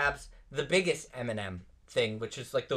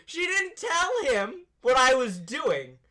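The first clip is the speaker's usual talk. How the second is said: high, loud exclamation; exasperated outburst; 13 semitones higher, 6 dB louder, slower than usual. Real, not acted. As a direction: burst out with comic exasperation, voice shooting up. Exasperated outburst echoing the co-host.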